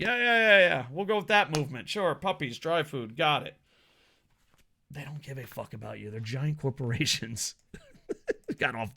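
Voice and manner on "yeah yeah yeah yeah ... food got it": hammed-up brushing-off corporate voice; mock corporate yes-man. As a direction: placate them with fake enthusiasm. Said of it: "they're like".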